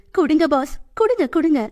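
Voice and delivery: high, wheedling repeated pleas; nagging. A narrator's reading. Girl pestering her boss for chocolate, wheedling. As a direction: pester him childishly for it. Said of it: "என்று அவனை நச்சரிக்க".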